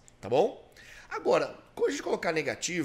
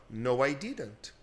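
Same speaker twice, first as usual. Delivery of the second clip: soft no; 4 semitones lower, much slower than usual. Shown as a demonstration. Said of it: "um suave não".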